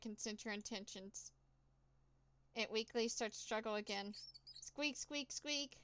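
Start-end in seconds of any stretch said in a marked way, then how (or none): 4.6-5.8 high mouse squeak. Acted. Grabbing the mouse in the alley, a high frightened squeak.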